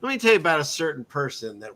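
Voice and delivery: quick, breezy storyteller launching into another tale; imitating Jesus storytelling. Jesus answering the partygoer with yet another story, quick and breezy. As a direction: rattle it off like a man with endless parables. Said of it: "And they'll go".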